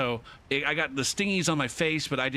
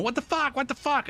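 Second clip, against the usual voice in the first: retold yelling; 12 semitones higher than usual. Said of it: "she's yelling and shit".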